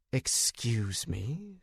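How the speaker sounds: slow, drawn-out surprised excuse me. Acted. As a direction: caught off guard, slowly. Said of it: "It was her turn to look surprised".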